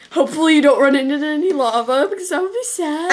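cheerful gamer warning; Cupquake impression. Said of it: "Flashback to, uh, Ice Cupquake".

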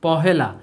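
পহেলা said in full, not একলা; name পহেলা as the right word for the first; correct reading. Shown as a demonstration. Teacher tells pupils how to read the first day, plainly. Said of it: "এরকম এটাকে বলবো যে".

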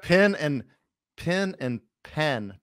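"pin" and "pen" with the same vowel; Southern pin-pen merger. Shown as a demonstration. Southerner explaining the merger, "pin" and "pen" alike. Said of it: "Southerners do not make this difference".

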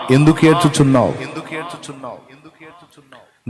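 reverberating, fading repeats; echoing voice. Acted. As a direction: let the divine question ring out and die away. Lord's question, echoing and fading away.

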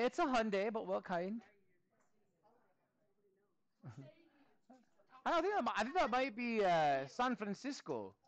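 light mock Scottish accent with "aye"; teacher hamming up a Scottish accent; a hint of Scottish brogue while teaching. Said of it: "get that graphed in a Scottish accent".

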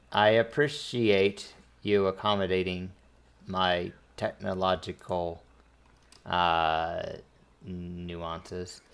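lightly voiced droid, halting between phrases; droid translator. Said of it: "you hear the droid in the background".

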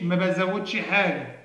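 slow, fed-up refusal from the stingy digit; a touch of disgust, slow and grudging; disgusted reply. Retold or imitated. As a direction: drag it out like you can't be bothered. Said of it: "وترد عليك بقرف كده".

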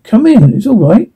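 stunned father welcoming strangers, choked with disbelief. Acted. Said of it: "choked with disbelief".

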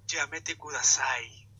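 slow, soft, hammed-up sultry; slow breathy-style seductive joke; mock sensual voice. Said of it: "lo voy a decir de manera sensual".

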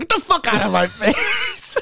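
high-pitched outburst breaking into laughter; mock angry mom. Mom answers her kid's awkward question, mock angry outburst. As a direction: snap like a furious mom, half laughing. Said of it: "with fucking violence".

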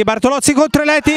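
fast, rising build before the kick; breathless italian goal commentary. Real, not acted. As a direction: speed up and lift for the penalty. (telecronaca concitata prima del rigore)

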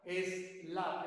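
"Es la" said as two syllables; vowel added. Shown as a demonstration. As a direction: put an "e" vowel before "la". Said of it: "le ponemos la vocal".

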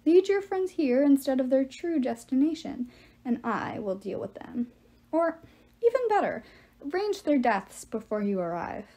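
lightly voiced scheming villain; commanding giant, swelling then dropping off; menacing giant. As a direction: lay out a cold bargain. Giant villain gives orders.

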